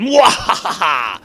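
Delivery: slow shouted villain cackle; hammed-up mwahaha; evil laugh. Villain gloating over the rings, evil cackle.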